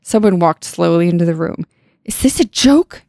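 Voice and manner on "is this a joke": high cry of disbelief; upset cry. Acted. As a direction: cry out, pitched up and incredulous. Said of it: "Shannon cried".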